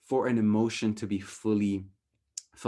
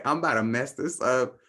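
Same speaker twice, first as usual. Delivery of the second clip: cool and confident; 4 dB louder than usual. Shown as a demonstration. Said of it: "mess this up as cool as I can".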